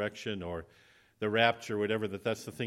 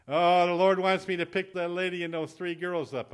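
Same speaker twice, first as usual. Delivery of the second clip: driver's excited announcement; 6 semitones higher, 4 dB louder than usual. Acted. Driver announces his prompting.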